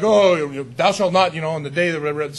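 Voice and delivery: mock stern, wagging-finger thou shalt not; hammed-up harsh lawgiver; stern scolding God. How people wrongly read God as a scolding judge, mock stern. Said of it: "we always read it like".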